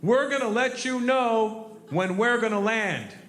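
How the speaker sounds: high, slow, drawn-out called announcement; big military guys. Retold or imitated. Military crewmen notifying passengers on a plane, drawn-out high call. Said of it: "these two big military guys get up".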